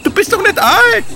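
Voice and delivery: cheeky high little fellow. Acted. Wurstel character voice.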